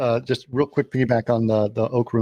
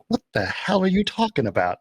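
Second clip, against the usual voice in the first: higher-pitched retold bewilderment; completely confused; 6 semitones higher than usual. Man grabbed by two thugs at gunpoint, mock bewildered. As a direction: act baffled at being grabbed. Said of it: "Like, just completely confused".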